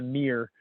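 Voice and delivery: mirror squashed into one syllable; mirror as "meer". Shown as a demonstration. Reading a meme mocking Americans, mirror said as "meer". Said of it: "M E E R".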